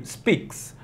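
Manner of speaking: speaks, the ks hissed like a cymbal; speaks with crisp ks. Shown as a demonstration. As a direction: finish speaks with a soft ks. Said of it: "Tenta falar no espelho".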